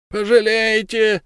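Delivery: high, slow, wailing plea from the trapped man; captured werewolf pleading with Ulenspiegel. Acted. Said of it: "продолжал голос".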